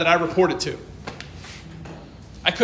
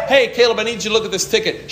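calling out; 4 semitones higher, faster than usual. Retold or imitated. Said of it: "It could".

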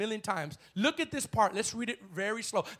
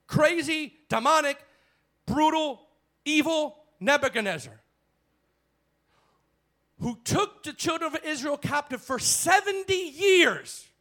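higher and louder, each word punched; fiery preaching; 6 semitones higher, 5 dB louder than usual. Real, not acted. Preacher condemning Nebuchadnezzar.

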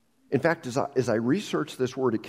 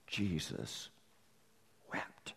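soft, dropped almost to nothing; hushed; 7 semitones lower, 14 dB quieter, much slower than usual. Real, not acted. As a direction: let it fall into silence. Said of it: "dramatic hush".

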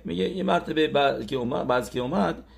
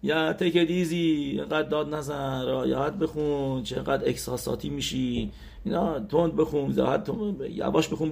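mocking naysayer; 3 semitones higher than usual. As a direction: mimic a dismissive heckler egging someone on. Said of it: "حرفای ساتانیه که طرف میاد میگه".

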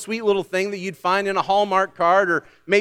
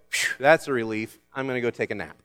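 mock relief; 4 semitones lower than usual. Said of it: "don't hear the words and go".

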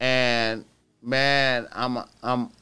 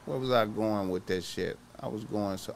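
trailing off; 3 semitones lower, 8 dB quieter than usual. Real, not acted. Loses his train of thought.

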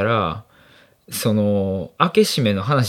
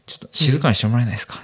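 polite request; much faster than usual. Retold or imitated. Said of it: "ずーっと横で言ってて".

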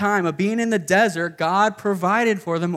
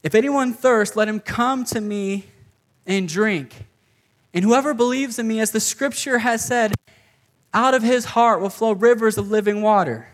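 proclaiming cry; 4 semitones higher than usual. Retold or imitated. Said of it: "the Greek here is he's, like, yelling".

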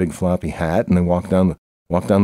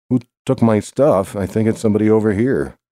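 mock angry neighbor; 4 semitones higher than usual. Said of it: "that's what the sign says".

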